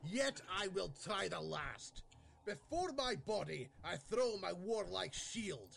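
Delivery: put-on high-pitched Scottish accent. A performer delivers the closing lines of a dramatic verse speech in a strong Scottish brogue. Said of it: "The brogue really came out there".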